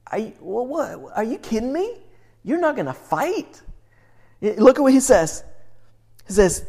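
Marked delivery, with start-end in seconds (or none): 0.1-3.6 hushed disbelief. Real, not acted. Preacher reacting to scripture verse.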